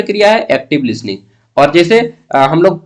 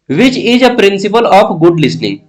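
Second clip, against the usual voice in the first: slow reading; 4 semitones higher, much slower than usual. Shown as a demonstration. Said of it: "teacher reads the question slowly".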